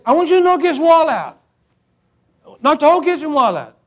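hammed-up big request, stretched out; insistent neighbour. Neighbour demands demolition, retold.

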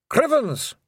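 high, loud Scots yelp; shrill little Scots cry; Pictsie exclamation. Acted. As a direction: burst in with a squeak. Pictsies burst in.

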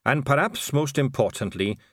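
lilting, measured dwarf voice; dwarf record keeper. Acted. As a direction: list the records as a proud archivist. Same dwarf voice continues.

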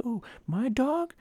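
high, drawn-out owner voice; oblivious dog owner. Retold or imitated. Imitating a neighbor talking about his dog, high-pitched owner voice. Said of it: "the owner is like".

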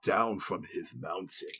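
slow, building announcer hype; hype intro. Pretend. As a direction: announce him like a champ. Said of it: "You ready for the remix?".

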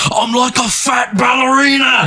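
high shouted goofy robot voice; mock John Goodman robot. Podcaster shouting a robot's line while laughing. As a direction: belt it like a gleeful fat brawler. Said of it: "And he goes".

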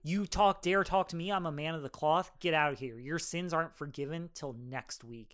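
mock indignant priest, easing off; lightly acted priestly outrage; pissed-off priest. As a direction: start forceful, then settle into stern dismissal. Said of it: "gets pissed off".

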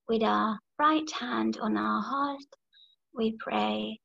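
unhurried meditation voice, long silences between phrases; guided meditation. Real, not acted. Leader guiding the group to question within, guided meditation. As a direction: lead them inward, leaving room to breathe.

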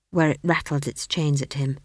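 ordinary delivery, nothing marked

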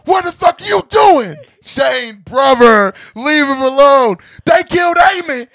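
high, very loud hammed-up Texan yell; shouted Texas accent. Quoting The Walking Dead, hammed-up Texan shouting. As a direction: holler the quote in a mock Texas drawl, slowly. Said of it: "talking like I'm from Texas".

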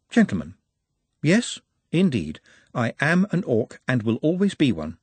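a lightly voiced calm, refined orc; polite orc. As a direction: speak like a gentle scholar. Nut through the megaphone.

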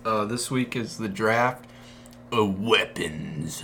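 slow announcer read. Acted. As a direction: draw it out like a host. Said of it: "You're getting better at that".

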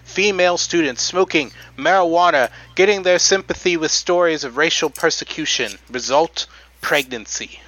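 put-on old timey announcer. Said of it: "do the rest of the podcasts that we do on that voice".

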